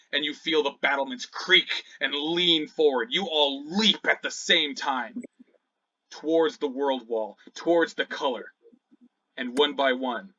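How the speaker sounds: dramatic, paced narration; game master's scene setting. Acted. Game master narrating the party's leap, epic storytelling. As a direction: build to the leap, phrase by phrase.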